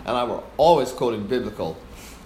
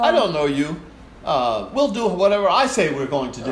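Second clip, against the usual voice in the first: higher, louder angry bark at an intruder; angry conductor yelling; 4 semitones higher, 4 dB louder than usual. Retold or imitated. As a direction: snap at her like an outraged maestro.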